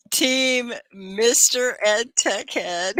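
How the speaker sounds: high playful puppet voice. Acted. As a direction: echo the puppet's catchphrase, slowly. Teacher repeats the horse's line.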